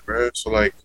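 normal talking voice

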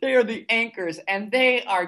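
high, giggling delight; laughing. Real, not acted. Host laughing about the puking team, high giggly. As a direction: laugh through it.

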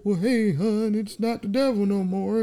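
high put-on sweet-talking voice; hammed-up husband sweetening his wife; mock sweet-talk. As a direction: coo at her like a smooth husband. Man sweet-talking wife after tricking her.

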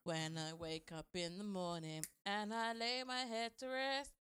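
very slow, drawn-out churchy voice; slow mock testimony. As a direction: drag it out like a testimony.

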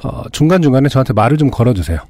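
husky, worn-out throat; hoarse voice. Real, not acted. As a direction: talk through a hoarse throat. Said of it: "목이 계속 잠길 것 같아요".

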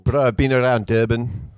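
put-on South African accent, listing cities. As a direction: play a South African local. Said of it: "where did you pick up this accent from".

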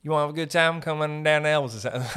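lightly voiced Memphis tout; a hint of a local guy selling a night out; Memphis hustler. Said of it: "I imagine there's a guy in Memphis".

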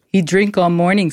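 a mock Chinese restaurant owner's broken English; lightly hammed-up Chinese accent; bad Chinese accent. Podcaster quoting a restaurant owner in a mock Chinese accent. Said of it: "That's the worst accent I've ever heard".

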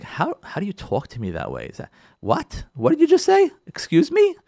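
indignant what-did-you-just-say; offended disbelief. Acted. Slighted spouse reacting to a rude remark, rising indignation.

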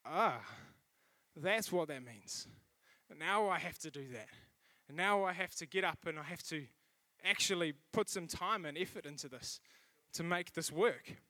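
heavy reluctant Monday voice; weighed down. Retold or imitated. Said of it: "it's like".

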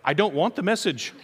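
laughing as you refuse; a nervous laugh through the words; laughing refusal. Pretend. Listener laughing off Pence's message.

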